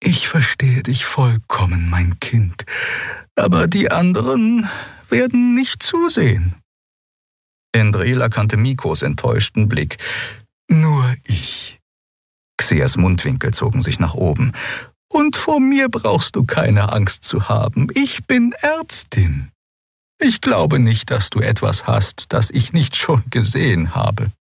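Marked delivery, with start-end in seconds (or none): 0.0-6.6 put-on old doctor soothing, higher voice; gentle old healer. A narrator's reading. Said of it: "Sanft erklärte sie Lien". 10.7-24.3 put-on higher, slowed reassuring old healer; a gentle old doctor putting her at ease; old Draxyl doctor, kindly. A narrator's reading.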